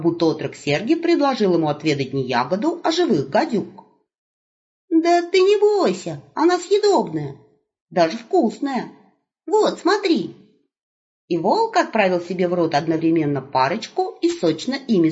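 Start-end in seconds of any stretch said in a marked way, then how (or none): 4.9-10.3 put-on high, bright calling out to the old man; young wolf hailing grandpa; cheerful young wolf. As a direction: call out eagerly, higher.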